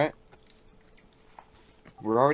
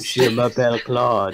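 put-on French accent; 5 dB louder, slower than usual. Mock French seduction with laugh.

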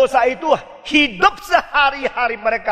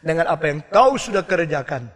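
softer, lower sorrowful plea; grieving Holy Spirit; 7 semitones lower, 4 dB quieter than usual. Retold or imitated. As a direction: speak as a grieved Spirit calling back. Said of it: "Roh Kudus berkata".

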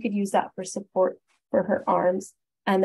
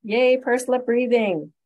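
higher, louder and slow, cheering the topic; excited cheer; 4 semitones higher, 7 dB louder, slower than usual. Real, not acted. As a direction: announce it like a favourite treat. Announces favourite technique cheerfully.

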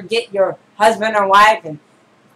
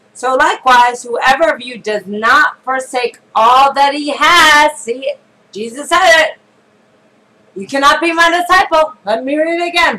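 insistent pulpit delivery that demands attention; forceful preaching; 2 semitones higher, 4 dB louder than usual. Real, not acted. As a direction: preach the verse, leaning on key words. Preaches the verse emphatically.

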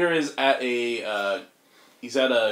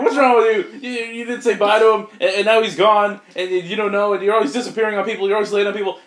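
mock angry rant, much higher and louder; Gwen scolding; 7 semitones higher, 5 dB louder than usual. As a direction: scold him fast, voice up high. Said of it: "I'm like".

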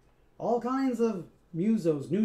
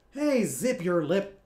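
snapping; 4 dB louder than usual. Acted. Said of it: "Scat snapped at Sprock".

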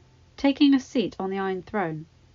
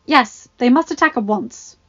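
loud, raised whiny complaint; petulant boy king; 2 semitones higher, 9 dB louder than usual. Acted. Joffrey whining to Pycelle about the cold. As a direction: whine like a spoiled king.

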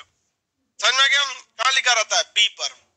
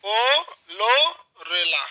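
slow naming; 3 semitones lower, much slower than usual. Shown as a demonstration. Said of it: "क्या नाम है?".

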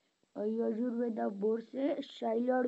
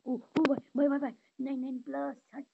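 panicked yelling; 3 semitones higher, 5 dB louder than usual. Real, not acted. Panic during firefight.

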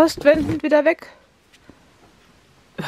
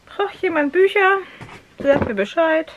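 high slow offer; 5 semitones higher than usual. Real, not acted. Offering books to viewers.

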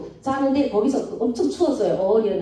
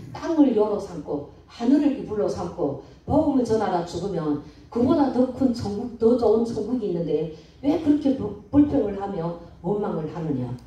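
calm, gentle. Retold or imitated. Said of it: "그런 마음을 하나님이 잔잔하게 주시더라고요".

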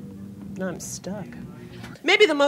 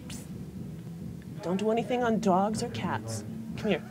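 spirit guide whisper; 8 dB quieter than usual. Pretend. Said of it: "and says".

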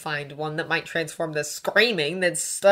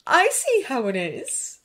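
slow, raised, knowing tease; gleeful; 10 semitones higher, 4 dB louder, slower than usual. A narrator's reading. Draco teasing Hermione about Victor, gleeful. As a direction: draw it out with relish. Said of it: "he said gleefully".

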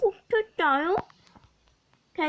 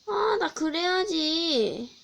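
우는 척; 3 semitones higher, slower than usual. Acted. Begging viewers, fake crying.

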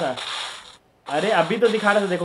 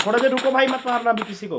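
high, pressing appeal; urgent plea; 6 semitones higher than usual. Real, not acted. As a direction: beg them to hold off. Pleads to pause as stream drops.

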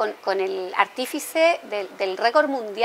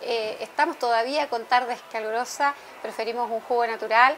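softer, measured on-air plug; sponsor read; 7 dB quieter than usual. Real, not acted. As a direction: present the sponsor in a gentle, unhurried announcer manner. Host reads a sponsor plug.

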